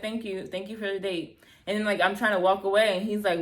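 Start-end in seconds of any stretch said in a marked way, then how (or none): 0.0-1.4 curt dismissive thanks. Retold or imitated. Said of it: "just like that".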